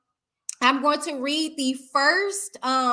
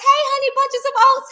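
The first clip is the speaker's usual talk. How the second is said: sing-song quote; 14 semitones higher, 7 dB louder than usual. Retold or imitated. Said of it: "And Rosalind says".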